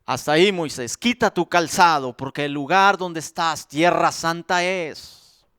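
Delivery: voz de Dios. Acted. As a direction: speak as God, grave and measured. Dios habla a Moisés. (voz de Dios, grave y pausada)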